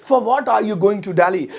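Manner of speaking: slow, clear English; teacher modelling the sentence; spaced-out words; slow model sentence. Shown as a demonstration. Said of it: "तुम किस लिए दिल्ली जा रहे हो".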